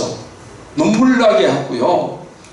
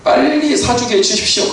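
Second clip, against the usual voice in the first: mock loud prayer; 3 semitones higher than usual. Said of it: "막 큰 소리로".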